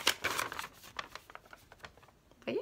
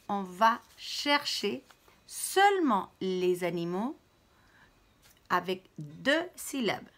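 consigne détachée. Shown as a demonstration. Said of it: "consigne détachée".

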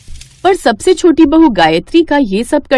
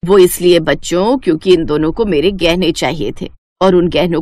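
lower, measured mother-in-law voice; stern mother-in-law; 6 semitones lower than usual. Acted. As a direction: speak as the wise old mother-in-law, firm and knowing. Mother-in-law explains to her sons. (धीमी, गंभीर सास की आवाज़)

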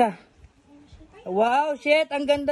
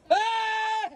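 high-pitched "ah" cry; high scream; 10 semitones higher than usual. Real, not acted. Reacting to a friend's jump, high scream.

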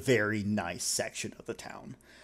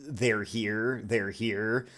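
put-on a touch of breathless kid; building, louder and higher at the end; excited child; 3 semitones higher, 7 dB louder than usual. Little girl telling her mom the author was right there. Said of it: "something to the effect of".

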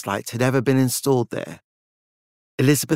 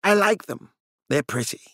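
peaceful; 7 semitones higher than usual. A narrator's reading. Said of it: "Francis shrugged peacefully".

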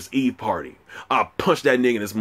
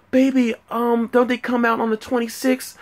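high falsetto girlfriend impression; 13 semitones higher than usual. Girlfriend questioning the shoe release date, mock falsetto voice. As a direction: mimic a hesitant girlfriend way up high. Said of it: "She was like".

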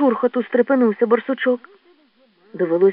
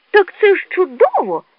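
boastful exclamation; 3 dB louder than usual. Acted. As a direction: crow about it boldly. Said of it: "хвалькувато вигукнув смугастик". (хвалькувато)

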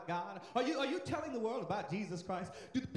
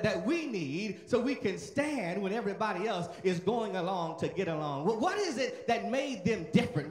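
rising preaching; 4 dB louder than usual. Real, not acted. Preacher repeats question louder.

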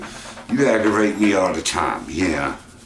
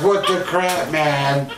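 dog's voice; 9 semitones higher, slower than usual. Retold or imitated. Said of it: "Boo's like".

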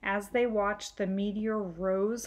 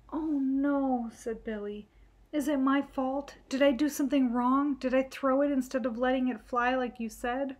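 put-on higher, anxious little-boy voice; worried child; 5 semitones higher than usual. Billy asks Brother if he broke the plane, anxious. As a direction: fret that it was your fault.

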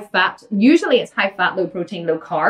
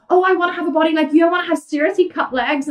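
wishful mock client; 6 semitones higher, faster than usual. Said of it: "People say to me".

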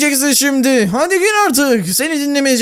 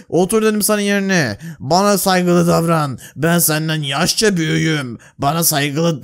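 stern captor; 9 semitones lower than usual. Acted. Captor scolds the prisoner.

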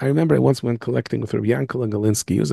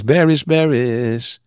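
calling out; much slower than usual. Acted. Calling into the house.

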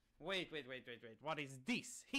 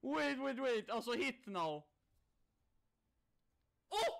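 shrieking jackpot winner; 8 semitones higher, 7 dB louder than usual. Real, not acted. Big win landing on the slot.

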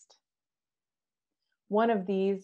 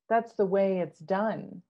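with great decision; 5 dB louder than usual. Acted. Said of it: "the queen said with great decision".

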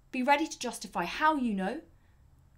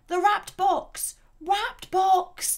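loud, high crowd chant, drawn out; audience yell; 9 semitones higher, 8 dB louder, much slower than usual. Acted. Audience yelling out to the stage, loud and high. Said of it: "the audience yelled".

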